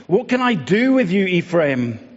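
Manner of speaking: God pleads with wayward Ephraim, rising high and exasperated; a father at his wit's end crying out to his child; pleading God. Acted.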